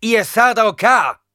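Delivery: slow, loud call across the cave. A narrator's reading. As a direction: call them out by name. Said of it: "rief Paul zu den Überlebenden hinüber". (laut hinüberrufen)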